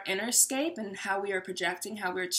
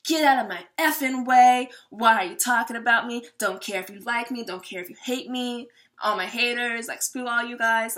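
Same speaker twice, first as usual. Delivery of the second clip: loud, pushy mock tough-guy rant; hammed-up aggressive swagger; brash king bluster; 5 dB louder than usual. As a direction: bulldoze through like a cocky king. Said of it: "the King of Wands would wanna go forth".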